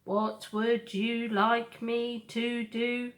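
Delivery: slow, even robot voice; measured and unhurried like a machine. Acted. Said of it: "said the robot".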